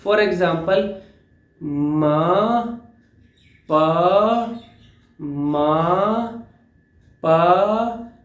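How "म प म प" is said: म and प drawn long and easy; stretched, relaxed म प without force; slow relaxed syllables. Shown as a demonstration. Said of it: "alphabet को लंबा खींच सकते हो".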